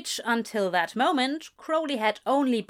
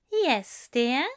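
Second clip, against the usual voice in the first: higher, sweet rising reply; Aziraphale voice; 3 semitones higher than usual. A narrator's reading. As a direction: answer sweetly, a little higher.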